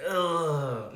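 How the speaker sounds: loud drawn-out "ugh"; long, loud groan; exasperated groan. Real, not acted. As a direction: groan it out in dismay. Groans over a sad ending.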